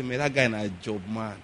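put-on envious boys. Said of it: "young boys say with envy".

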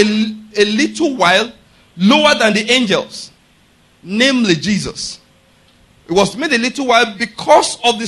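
measured, emphatic preacher quoting scripture; scripture recitation. Real, not acted. Preacher quoting Hebrews chapter two to his listeners, measured scripture recitation.

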